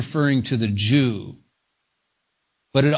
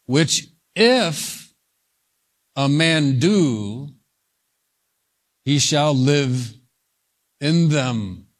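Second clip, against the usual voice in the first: slow reading in separated phrases; measured scripture reading; much slower than usual. Shown as a demonstration. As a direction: read the verse out slowly, pausing between phrases. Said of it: "This is where Paul quotes".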